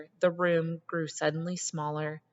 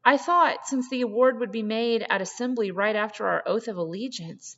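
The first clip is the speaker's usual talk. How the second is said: near-hysterical rush; 5 semitones higher than usual. Acted. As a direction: blurt it out in rising panic. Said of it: "the words tumbled out almost hysterically".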